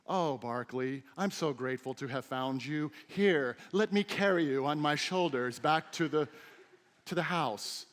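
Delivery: a mock-gentle pet owner, a touch syrupy; mock tender to the dog. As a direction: coo at Barkley as if grateful, half in jest. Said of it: "Here's what I don't do".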